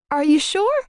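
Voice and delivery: croaky question; croaked out. A narrator's reading. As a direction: croak it out timidly. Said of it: "I croaked out".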